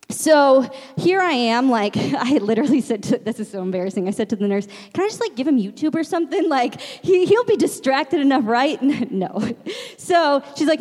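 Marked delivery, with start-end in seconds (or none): 4.9-8.8 hopeful plea. Retold or imitated. Retells her pleading question to nurse.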